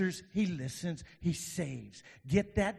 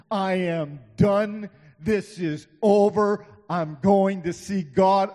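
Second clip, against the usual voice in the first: despairing Jonah, acted out; 5 semitones higher, 9 dB louder than usual. Voicing despairing Jonah in the fish.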